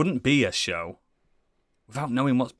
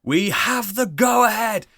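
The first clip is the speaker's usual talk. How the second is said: awards show host; 4 semitones higher, 3 dB louder than usual. Pretend. Mock awards show opening.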